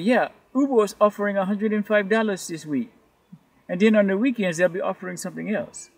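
amateur Nigerian accent impression. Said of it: "that's my best Nigerian accent".

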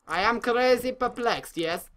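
light mock Borat accent; a hint of Borat's foreign English. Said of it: "Borat makes me feel safer".

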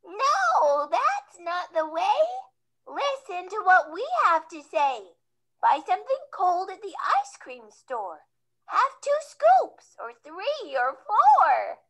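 loud, high excited call; children yelling. Acted. Children telling Sneezy to buy ice cream, loud yell. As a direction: shout the advice like eager kids. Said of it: "The children yelled".

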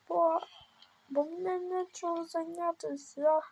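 high, pleading explanation; play-acted captive's excuse. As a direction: make excuses as the cornered captive. Captive explains himself to captor. (високий виправдальний голос, понарошку)

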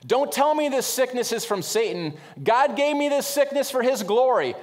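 high, loud proclamation of the man in the wheelchair; imitating the sick man. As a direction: mimic the cheering man declaring it from God. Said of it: "He says".

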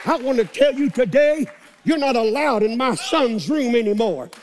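rising preacher declaration; preaching. Acted. Preacher warning the devil off, building. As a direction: build the rebuke step by step.

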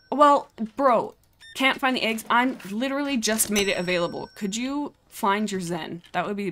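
loud, high mock exasperation; exasperated retort. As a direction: argue back at an unreasonable customer, playfully indignant. Arguing back at a game customer.

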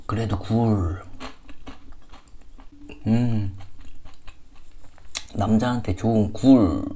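talking between bites; muffled words while chewing; mouth full, chewing. Real, not acted. Seen 0: Ate with chopsticks at -7; lips pressed, chewing throughout.

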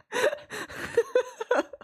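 high-pitched breathy giggle fit; squealing laugh. Real, not acted. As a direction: giggle helplessly, half swallowed. Laughs while trying to continue.

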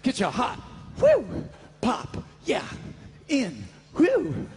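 imitating the hawker's call in broken bursts; mock quoting. Host quoting the ringmaster back to him, mock repeat. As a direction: break up the call with little whews and pops. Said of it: "Did you just say".

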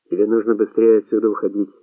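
plain reading voice

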